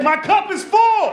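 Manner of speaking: high, loud and slow, word by word; loud slow punchline. Retold or imitated. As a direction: yell the callback, stretched out. Punchline callback at neighbor.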